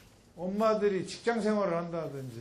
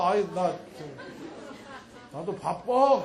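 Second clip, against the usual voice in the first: put-on child brushing off mom; 3 dB louder, much slower than usual.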